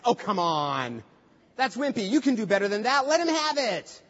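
playful coach egging him on; urging encouragement. Retold or imitated. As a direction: push the student to let loose.

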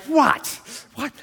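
high, feigned innocent protest; mock innocent what. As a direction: play dumb, as if caught out. Wife looks at him accusingly.

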